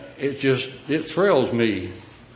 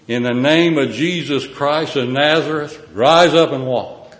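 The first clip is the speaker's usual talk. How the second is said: commanding proclamation; 3 semitones higher, 6 dB louder than usual. Acted. Peter commands the healing.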